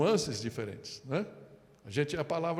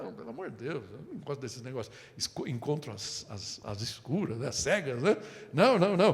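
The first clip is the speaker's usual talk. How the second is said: put-on timid boy. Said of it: "todo tímido, fala".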